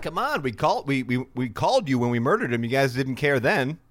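hammed-up whiny complaint; indignant MBS impression. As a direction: act wounded that nobody cared before. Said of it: "He's like".

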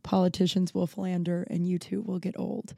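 a hint of a wise narrator; quoting the sunscreen song. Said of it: "the sunscreen song".

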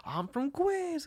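high, drawn-out stage introduction; stretched-out mock stage call; band member shout-out. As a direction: mimic a musician hyping the crowd, high and slow. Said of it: "And they go".

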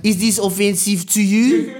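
hammed-up French accent question; clumsy mock French; bad French accent. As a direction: ask it in a put-on French accent. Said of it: "double down on that accent".

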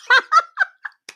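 loud high cackle; high laughing squeal. Real, not acted. Host laughing at own comeback, high squeal.

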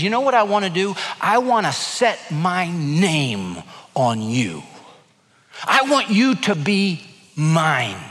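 lightly voiced God, slow and tender; God's tender voice. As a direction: coax them gently, as a loving father. Preacher voices God's tender plea.

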